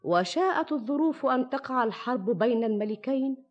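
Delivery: put-on measured old storyteller narration; arabic grandma folk tale. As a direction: tell it like a fireside tale. Shahrazad begins her tale over music.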